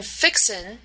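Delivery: "fixin'" ending in a plain n; dropped G. Shown as a demonstration. Lecturer showing students the Southern U S dialect, dropped-G "fixin'". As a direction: say "fixin'" without the g. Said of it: "the G is missing at the end".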